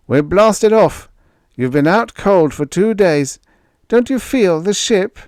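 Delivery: jovial giant shouting introductions; hearty sailor Moore. A narrator's reading. Crewman greets groggy Greg, hearty and loud.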